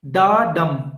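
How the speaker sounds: unstressed "Da", then a stressed "dum". Shown as a demonstration. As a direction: say "Da", pause briefly, land firmly on "dum". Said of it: "dum is a stressed syllable".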